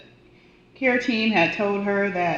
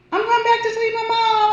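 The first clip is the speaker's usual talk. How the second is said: put-on much higher small-girl voice; a much higher voice for the little girl talking about her mom; little child voice; 5 dB louder than usual. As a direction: play the four-year-old sweetly. Voicing the child.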